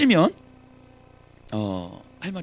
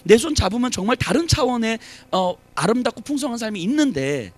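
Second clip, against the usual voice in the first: tender plea; 5 semitones higher than usual. Acted. God voiced pleading to people.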